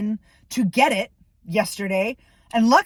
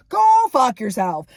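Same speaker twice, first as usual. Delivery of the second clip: angry repeat, louder; louder repeated curse; 5 dB louder than usual. Real, not acted. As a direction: GO hit harder and louder.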